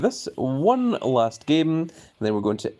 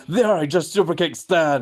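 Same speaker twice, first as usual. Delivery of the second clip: Shawn Michaels; 5 semitones higher than usual. Retold or imitated. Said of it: "Shawn Michaels turns to Triple H and goes".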